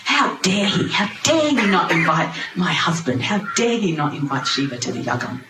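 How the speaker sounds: mock outrage, leaning on HOW DARE; on her high horse. Wife protests the slight to her husband, indignant. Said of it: "she's really on a high horse".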